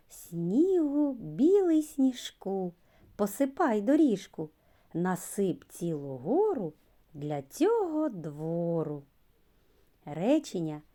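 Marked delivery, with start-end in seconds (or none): 0.1-9.0 poem recital. Shown as a demonstration. Teacher reading a snow poem to children. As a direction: recite it brightly for little kids. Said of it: "Пропоную послухати віршик".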